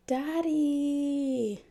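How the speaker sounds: put-on a kid protesting while giggling; playful childish whine; whining kid. A narrator's reading. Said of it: "half whines, half laughs".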